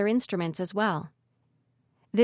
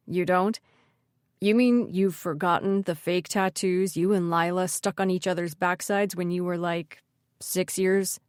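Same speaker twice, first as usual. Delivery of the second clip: put-on teasing older brother; 2 semitones lower than usual. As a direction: tease her like a knowing older brother.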